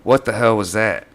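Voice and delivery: acted fear. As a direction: demand it, startled and scared. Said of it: "looks at each other in fear".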